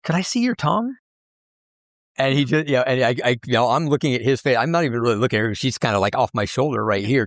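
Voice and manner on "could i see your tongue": higher, quicker mock request; a fan asks the performer to show his tongue; fan woman asking. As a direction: rush it out like an eager fan. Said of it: "I said".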